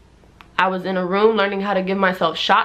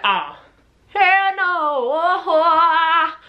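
mom freaking out; 7 semitones higher, much slower than usual. Retold or imitated. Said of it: "So my mom was like".

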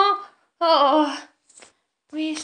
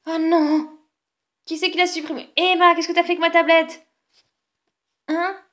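louder, upset accusation; angry outburst; 3 semitones higher, 7 dB louder than usual. Acted. Brother accusing Emma about his tablet, angry and loud. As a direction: yell at your sister over the tablet.

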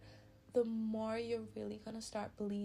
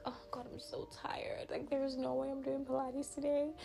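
sleepy, breathless-sounding mock whisper; tired whisper; 2 semitones higher than usual. To herself waking up too tired, whispered excuse. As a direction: whisper the excuse, groggy and unwilling.

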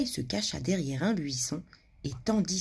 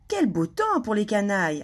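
mischievous glee; 3 semitones higher, 4 dB louder than usual. Acted. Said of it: "ajouta-t-elle".

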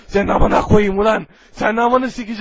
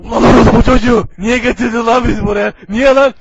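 angry outburst; 6 dB louder than usual. Acted. Furious at being summoned.

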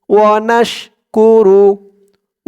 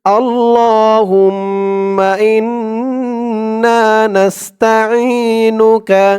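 drawn-out chanted Arabic recitation; slow recitation; 2 semitones higher, much slower than usual. Shown as a demonstration. Teacher leading students to recite along, slow chant. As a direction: stretch every syllable slowly. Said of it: "আমার সাথে বলুন".

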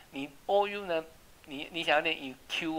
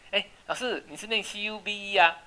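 mock student question; 6 semitones higher, 4 dB louder than usual. Teacher voices a student's question.

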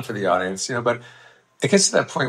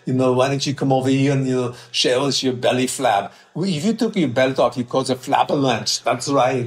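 lightly put-on Austrian accent, slightly raised; Hans and Franz accent; 3 semitones higher than usual. Bodybuilder mocking a weakling about belly flab, Austrian accent. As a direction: taunt in a mild Austrian accent.

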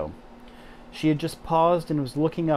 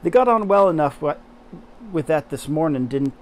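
loud, bright Yorkshire maid voice; Yorkshire accent; 6 dB louder than usual. Acted. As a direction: Martha in a broad Yorkshire accent. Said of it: "said Martha".

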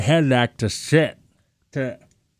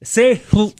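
talking through a mouth guard; words muffled by a mouth guard; 5 semitones higher than usual. Real, not acted. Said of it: "just made it flat in my mouth".

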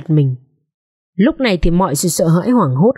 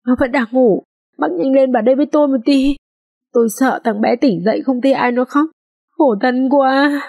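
anxious urging; 6 semitones higher than usual. A narrator's reading. Maid urging neighbour inside.

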